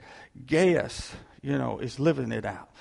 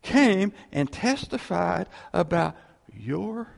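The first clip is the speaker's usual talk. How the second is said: slow, higher, drawn-out letter reading; reading John's words; 5 semitones higher, 5 dB louder, slower than usual. Retold or imitated. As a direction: savor each word of the apostle's praise. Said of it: "John goes".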